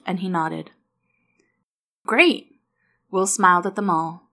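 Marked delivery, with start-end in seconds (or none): 2.0-2.6 high, loud burst of joy; boy thrilled at a sleepover; delighted child's exclamation; excited. A narrator's reading.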